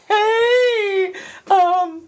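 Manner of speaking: high-pitched Scottish greeting; Scottish accent. Acted. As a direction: call out in a put-on Scottish accent. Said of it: "do my Scottish accent".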